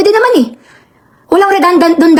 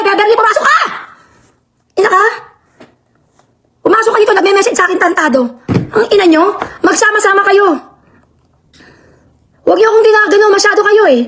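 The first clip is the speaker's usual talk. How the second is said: angry ranting. Real, not acted. Streamer cursing Beverly live for her messages, furious. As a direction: lash out at her.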